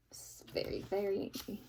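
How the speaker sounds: put-on storyteller hushing the children; hushed. A narrator's reading. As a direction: drop to a hush. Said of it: "so angry".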